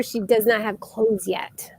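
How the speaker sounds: a slowed whispered aside about the unclothed doll. Real, not acted. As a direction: whisper it like a little secret to the viewers. Apologetic aside about naked doll.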